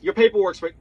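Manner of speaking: hurried retold line, barely finished; rushed phone message. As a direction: imitate a caller hanging up mid-word. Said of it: "She barely got the words out of her mouth".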